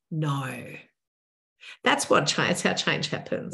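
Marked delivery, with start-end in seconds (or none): 0.1-0.7 polite, respectful no. Shown as a demonstration. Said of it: "respectful tone and go".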